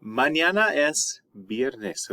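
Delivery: each word laid out slowly for students; slow model answer. Shown as a demonstration. Teacher modelling the answer slowly for the class. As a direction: spell out the answer slowly so they can follow. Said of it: "You would say".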